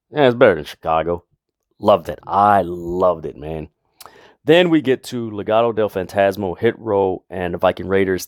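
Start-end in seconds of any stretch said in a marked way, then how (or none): 0.2-1.3 put-on smug, dismissive, offhand heel tone. Recapping a heel's line, imitating a dismissive heel. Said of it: "just sounding so dismissive. Like".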